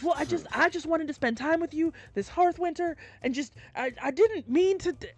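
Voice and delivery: sheepish apology. Acted. Drunk brother apologizes, stammering.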